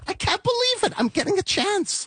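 high-pitched, amazed squeal without extra volume; re-enacted disbelief. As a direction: relive the thrill of a first break, pitch way up. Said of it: "it was like, I could not believe it".

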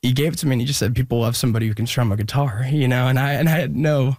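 holding back real tears while telling it; getting emotional. Real, not acted. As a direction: voice lifting as the tears start. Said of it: "I don't know why I'm getting emotional".

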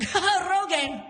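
high, mock strained restraint; holding it in. Dad reading his gift box, mock emotion held in. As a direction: act out barely contained outrage. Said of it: "trying to hold it all in".

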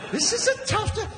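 squeaky mock-alarmed tough town; high exaggerated repeat. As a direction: jump way up on the repeat. Repeated line, punch-up.

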